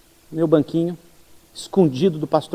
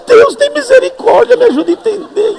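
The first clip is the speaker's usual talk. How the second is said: desperate prayer; 6 dB louder than usual. Retold or imitated. Pastor pleading with God to understand the English, much higher and louder. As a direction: cry out to God for help.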